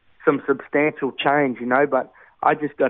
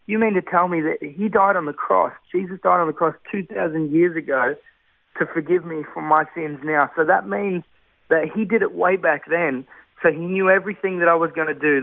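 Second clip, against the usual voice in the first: higher, grappling to take it in; retold amazement; 3 semitones higher than usual. New believer questioning rehab leaders about forgiveness, retold amazement. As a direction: work it out aloud, mildly incredulous. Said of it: "I couldn't get it with my head".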